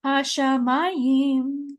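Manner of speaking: Hashemayim drawn out slowly, syllable by syllable; slow Hebrew reading. Shown as a demonstration. Teacher sounding out Hashemayim slowly for students. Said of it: "with the word Hashemayim says".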